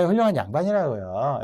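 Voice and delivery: lightly acted protesting excuse; playful feigned apology; excuse-making. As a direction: make a mock plea of innocence. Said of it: "거듭 변명하듯이 말했지만".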